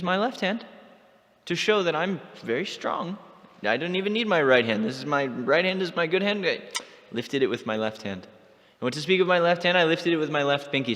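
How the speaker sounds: lightly voiced Krishna bragging about his strength. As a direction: show off and oversell it. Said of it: "So now he's bragging".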